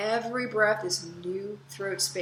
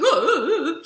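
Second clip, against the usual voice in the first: loud, high, goofy hooting; goofy Stooges "oh"; 10 semitones higher, 11 dB louder than usual. Shown as a demonstration. Teacher giving older men a model, goofy hoots. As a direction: hoot it like a silly Stooge. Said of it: "just really goofy".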